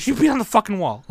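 mock her frantic outrage; lightly hammed-up wife; imitating hysterical Trisha. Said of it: "She was like".

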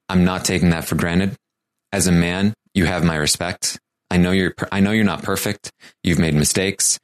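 lightly voiced Sheldon, measured and earnest; slightly deadpan, deliberate heart-to-heart with pauses between phrases; sincere speech, delivered evenly in short phrases. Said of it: "I'll get my Sheldon voice on".

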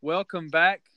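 loud, rising show welcome; announcer welcome. Acted. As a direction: greet the audience like a host. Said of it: "like I said, welcome back".

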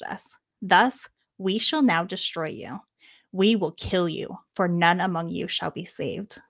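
lightly voiced solemn avengers; solemn declaration. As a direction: declare it like heroes in a myth. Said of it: "they yell out".

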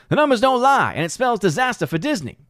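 high-pitched wrestler impression; put-on wrestler voice, pitched well up; Scott Steiner voice. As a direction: read it as a wrestler's promo. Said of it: "in my Scott Steiner voice".

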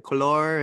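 "couleur" stressed on the last syllable, cuh-LOR; imitated Montreal pronunciation. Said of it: "'cause they say".

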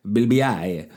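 slow, prissy correction; mock correction. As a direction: slowly correct the host's pronunciation. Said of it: "You're gonna probably say".

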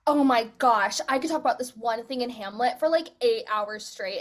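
a loud burst of gushing; excited gushing. Retold or imitated. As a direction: gush about it like you can't stop. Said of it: "I'm just like".

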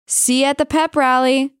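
radio DJ voice. Shown as a demonstration. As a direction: announce it like a radio host. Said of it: "I do like my radio voice".

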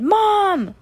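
high, drawn-out shout; long, high-pitched call through the bars; loud shout. A narrator's reading. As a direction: holler for Mom as loud as you can. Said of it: "shouted as loud as she could".

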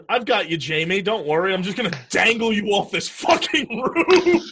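mock-heroic reassurance, building to the swear. Mock reassurance during a film scene.

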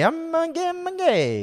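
high falsetto. Pretend. Joking put-on voice after accent question.

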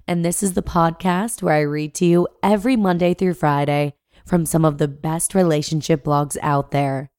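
blocked nose from a cold; stuffy nose, talking through a cold; congested. Real, not acted. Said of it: "I sound a bit congested".

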